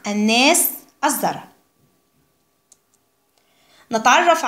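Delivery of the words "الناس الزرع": الناس and الزرع with no L, "an-nas, az-zar"; silent sun lam. Shown as a demonstration. Teacher shows pupils the sun lam is unspoken, الناس and الزرع without L. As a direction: drop the L in الناس and الزرع, doubling the next consonant. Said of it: "اللام الشمسية تكتب ولا تنطق".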